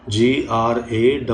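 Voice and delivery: "जीआरएमएमएआर" spelled slowly, letter by letter; slow spelling. Shown as a demonstration. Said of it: "गलत कभी मत करना".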